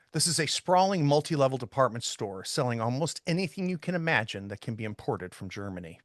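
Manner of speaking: measured, descriptive narration; game master's scene setting. Acted. Game master sets the department store scene for players, narrating descriptively. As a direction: read the scene out like prose, phrase by phrase.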